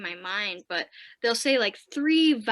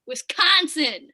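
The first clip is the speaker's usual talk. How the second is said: proud declaration; 4 semitones higher, 4 dB louder than usual. Real, not acted. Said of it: "Yes, I said it".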